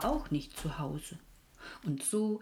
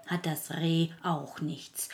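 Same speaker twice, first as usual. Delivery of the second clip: lamb voice. Acted. Lamb character speaks with bleats.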